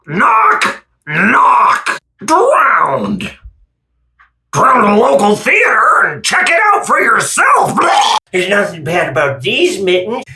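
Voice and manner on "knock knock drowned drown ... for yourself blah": mock sobbing. Mock crying knock-knock jokes.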